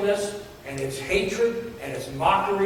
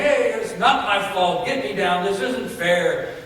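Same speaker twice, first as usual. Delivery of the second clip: louder, indignant protest; protesting thieves; 2 semitones higher, 6 dB louder than usual. Retold or imitated. The two thieves on the crosses, loud indignant protest. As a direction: complain you're being wronged.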